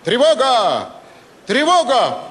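shouted alarm call. Retold or imitated. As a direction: yell it out like a street alarm. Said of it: "слышу на улице крик".

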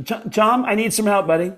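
high put-on comedian voice, pleading; Sam Kinison. Prank caller asks the star for help from the afterlife. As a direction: beg for help from beyond the grave. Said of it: "that impression is so good".

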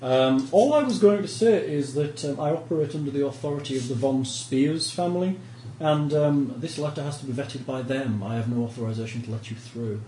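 a hint of a stiff, courteous official; polite but firm refusal; lightly voiced minor noble. NPC noble explains his authority.

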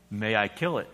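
low, soft, steady angel voice; a quiet, unhurried angel; calm angel. A narrator's reading. Angel asks.

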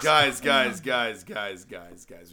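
calling for attention. Real, not acted. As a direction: trail off from a call to a murmur. Host calling the room to order.

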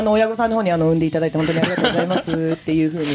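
low energy. Acted. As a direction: rattle it off with no energy. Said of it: "テンションひどい".

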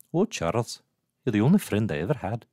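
lightly put-on character accent; Moira accent. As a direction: slip into a mild imitation accent. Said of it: "Your Moira is unmatched".

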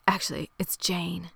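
secretive retold whisper; whispering a confession to the lawyer. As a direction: whisper the real name like a secret. Confessing her real name.

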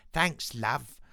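quick mock-Cockney mum; Cockney accent. Quoting Arthur's mum in the film, Cockney accent. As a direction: put on a little Cockney accent. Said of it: "some weird little Cockney accent".

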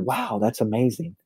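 quietly mean the praise; genuinely impressed. Retold or imitated. After a stranger lists his accomplishments, genuinely impressed. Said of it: "And I genuinely said".

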